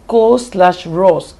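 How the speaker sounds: "Co slash ros" sounded out slowly in pieces; slow syllable-by-syllable "Co slash ros"; stressed-unstressed demo. Shown as a demonstration. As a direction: stretch out "Co", then "ros" as a separate beat. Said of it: "one stressed syllable is followed by".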